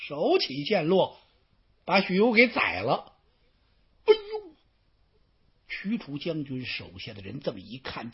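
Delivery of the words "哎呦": sharp cry. Acted. Storyteller's cry as Xu You dies.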